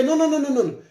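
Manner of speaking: put-on pleading denial; mock protest. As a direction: imitate someone objecting in a fluster. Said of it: "come and say".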